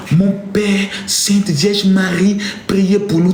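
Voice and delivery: slow, drawn-out pious plea; mock meek prayer. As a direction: parody a timid believer praying. Mocking meek believer's prayer. (prière timide parodiée, lente)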